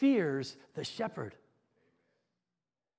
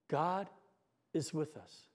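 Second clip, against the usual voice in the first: whispered words; 7 semitones lower, 12 dB quieter, slower than usual. Retold or imitated. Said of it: "she whispers to the child".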